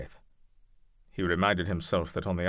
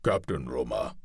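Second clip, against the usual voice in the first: calling out; 6 semitones lower than usual. Acted. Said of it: "Klaus called out".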